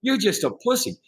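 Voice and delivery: mock taunting yell. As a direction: goad him with a half-playful jeer. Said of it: "he starts yelling at me and calling me names".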